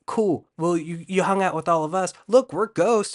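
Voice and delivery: high, lively put-on voice; hammed-up cheery spirit announcement; playful ghost voices. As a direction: build to a loud, high reveal. Voices spirits revealing they are ghosts.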